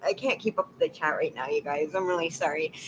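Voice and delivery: soft, teary, apologetic; trying to calm down after crying; quiet crying. Real, not acted. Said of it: "but I cried".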